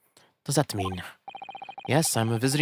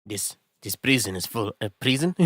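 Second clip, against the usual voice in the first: put-on Scottish accent. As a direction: read it as a gruff Scottish prison governor. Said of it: "Oh, you're Scottish".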